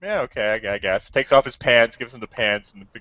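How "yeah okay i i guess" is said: meek mock reply. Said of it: "He's like".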